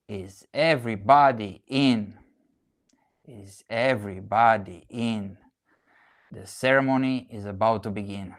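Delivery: measured spoken-word delivery with long pauses; solemn invocation, line by line; poetry recitation. Acted. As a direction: recite it like the opening of a ceremony. Recites a singer's spoken-word piece.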